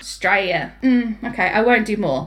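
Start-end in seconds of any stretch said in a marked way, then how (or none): 0.0-0.7 mock Australian accent on one word. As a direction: say it in a put-on Aussie accent. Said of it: "I don't think my Australian".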